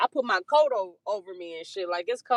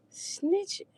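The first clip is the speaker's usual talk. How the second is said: mock high snitching; 12 semitones higher, 4 dB quieter than usual. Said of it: "So I'm like".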